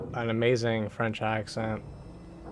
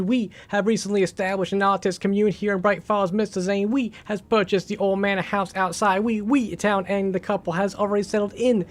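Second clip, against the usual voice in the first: loud, hammed-up French accent, higher and louder, with oui tics; mock French accent; 6 semitones higher, 4 dB louder than usual. Streamer reads game note for chat in a silly French accent. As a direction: read it like a cartoon Frenchman, oui oui. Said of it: "wrap with a French accent".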